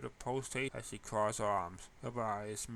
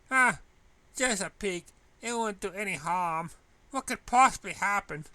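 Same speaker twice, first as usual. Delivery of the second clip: tempted; 8 semitones higher, 10 dB louder than usual. Acted. Talking herself into peeking.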